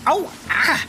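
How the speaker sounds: ow, scalded tongue; burnt mouth. Acted. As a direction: yelp from a hot taste. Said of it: "da ist das heiß".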